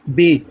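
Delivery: बे said "bay"; German letter B. Shown as a demonstration. Teacher showing learners German B, बे as "bay". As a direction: say बे like English "bay". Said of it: "इसकी pronunciation क्या है".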